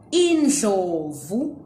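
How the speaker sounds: Indlovu slow, ending in a rise; slow teaching pronunciation; careful Ndebele word. Shown as a demonstration. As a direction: repeat Indlovu slowly for the learner. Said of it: "how to pronounce the word".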